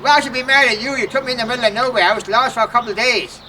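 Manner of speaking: mock indignant retort. Retold argument with cousin.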